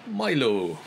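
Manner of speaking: botched attempt at a Scottish call; lightly put-on, off-target Scottish; failed Scottish accent. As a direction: try Scottish and miss slightly. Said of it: "No, that's not Scottish".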